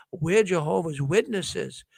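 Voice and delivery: slow, flat-hearted mock admission; unenthusiastic. A Witness family reluctantly naming their faith, unenthusiastic. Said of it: "they didn't say it with this overwhelming excitement".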